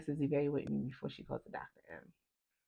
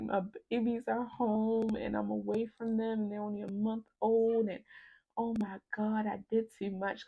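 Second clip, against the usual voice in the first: higher-pitched, mounting worry; retold panic; 6 semitones higher than usual. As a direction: replay an anxious spiral of thoughts. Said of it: "So I start panicking".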